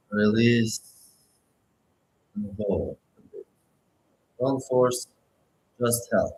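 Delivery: unhurried meditation guide with long pauses; guided meditation. Acted. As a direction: guide listeners gently, phrase by phrase, leaving space to breathe.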